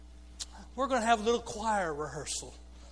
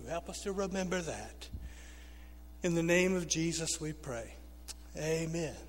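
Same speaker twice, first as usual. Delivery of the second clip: earnest prayer. Real, not acted. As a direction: pray for the congregation, settling into a hushed close. Leads a prayer.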